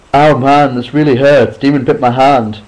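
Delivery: high, loud cries of pain; pained complaint. Acted. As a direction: complain through the hurt. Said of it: "Brad complained".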